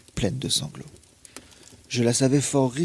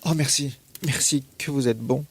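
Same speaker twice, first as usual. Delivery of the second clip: grateful cry; 3 semitones higher than usual. Acted. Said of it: "Elle s'écria".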